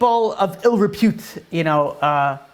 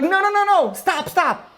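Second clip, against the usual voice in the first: much higher, urgent cry of no and stop; crowd voice screaming; 12 semitones higher, slower than usual. Retold or imitated. A voice in the crowd screams to stop the whipping, high cry. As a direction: cry out to halt it, high and desperate. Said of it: "a voice from the crowd that screams out".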